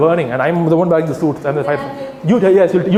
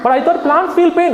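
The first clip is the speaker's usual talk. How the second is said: sarcastic; 11 semitones higher than usual. Pretend. Sarcastic mock surprise.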